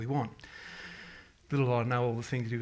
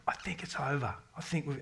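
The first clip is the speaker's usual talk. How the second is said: tearful whisper; 5 dB quieter than usual. Retold or imitated. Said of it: "almost in tears going".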